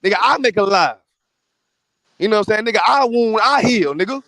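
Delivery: loud, fierce retold God voice; mock mad God. Friend voicing God as mad and fed up, loud fierce mock voice. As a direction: bark it out like an angry God. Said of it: "He basically saying it like this".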